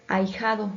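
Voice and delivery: ahijado with the h silent; pronunciation demo. Shown as a demonstration. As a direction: model ahijado as a-i-ja-do, h unheard. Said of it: "que se pronuncia".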